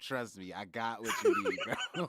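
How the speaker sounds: low, soft laid-back bro voice; smooth chill dude offering help; frat bro. Pretend. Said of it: "Bro, be Jawan".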